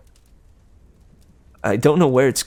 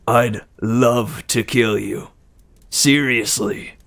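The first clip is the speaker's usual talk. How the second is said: slow menacing Ares; slower than usual. Acted. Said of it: "he said".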